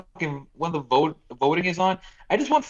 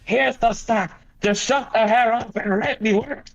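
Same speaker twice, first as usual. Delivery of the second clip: mock Biden voice; 5 semitones higher than usual. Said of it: "Okay, Biden".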